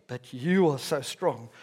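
dry mock praise at normal pitch; sarcastic. Paul mock-praising the people, dryly sarcastic. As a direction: drop back to understated irony on "so strong". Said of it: "can be quite sarcastic with the people".

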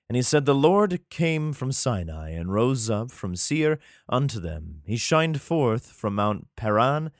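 measured, solemn Bible reading; scripture reading. Acted. Reads scripture aloud.

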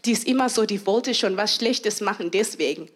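low, grudging mutter; suspicious grumble. Retold or imitated. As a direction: voice a suspicious cynic. (misstrauisches Murren)

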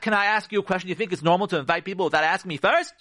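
quick, accusing question; indignant challenge. Acted. Wife challenging her husband over his invitation, indignant. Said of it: "But not".

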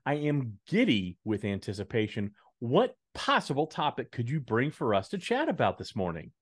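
mock-giddy sarcasm, laid on thick; playfully overdone, deadpan anticipation; sarcastic. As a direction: feign rapt suspense for a co-host. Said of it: "when you're sarcastic".

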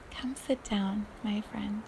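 soft unvoiced welcome; tender whispered welcome; whispered invitation. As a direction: breathe it to the listener.

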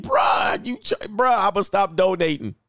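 mock exasperated married man. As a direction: play the husband caught out on stream. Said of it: "married men like".

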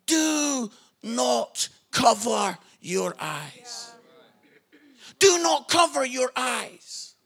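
slow, spaced-out preacher's command; each phrase drawn out with long pauses; emphatic preaching. Acted. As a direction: deliver it as a solemn charge from God. Preaching at full force.

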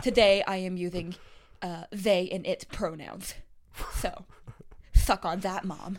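lightly voiced lisping makeup artist; lisping character. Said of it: "You mastered the lisp".

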